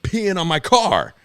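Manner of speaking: re-enacted outraged accusation; retold angry yelling. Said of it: "I'm yelling at the guy".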